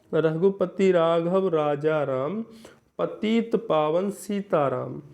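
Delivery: slow, measured verse reading; slow classroom recital of a poem; poem recitation. Shown as a demonstration. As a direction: recite the couplet line by line. Reads a poem example slowly.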